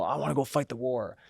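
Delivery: a hammed-up movie soldier eager to fight; eager movie hero. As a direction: play the keen recruit itching for war, pitch jumping up. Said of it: "you look at a character in a movie".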